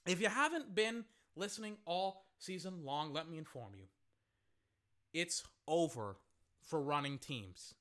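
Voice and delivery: low, hushed, measured delivery; solemn pronouncement. Real, not acted. Informing listeners running teams are finished, low and solemn. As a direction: drop down and announce it gravely, with pauses.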